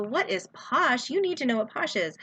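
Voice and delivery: mock-appalled salesy comeback; mock-shocked reply. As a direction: act amazed they haven't heard of it. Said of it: "You go".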